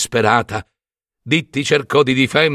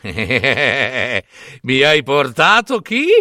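mocking disbelief; 2 semitones lower, much slower than usual. King mocks Perseus.

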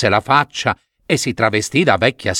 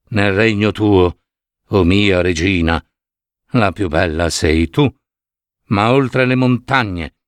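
magic mirror voice; 4 semitones lower than usual. Acted. (lo specchio magico, voce più grave e lenta)

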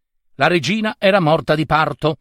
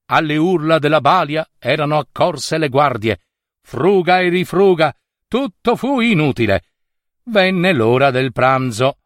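usual speaking voice

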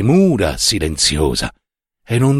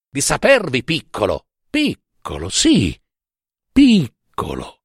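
higher, agitated rebuke with falling cries; indignant reproach; 6 semitones higher than usual. Acted. Young man berating the drunk professor, indignant reproach. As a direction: scorn each repeated word, drawing some out.

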